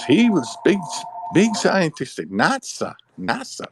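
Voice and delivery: put-on high broken-English German accent. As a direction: mimic the German wife's accent. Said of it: "very German accent".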